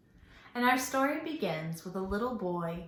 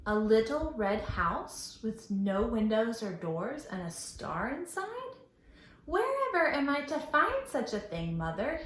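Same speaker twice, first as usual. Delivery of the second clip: put-on puzzled boy; 2 semitones higher than usual. Puzzled boy voiced in story.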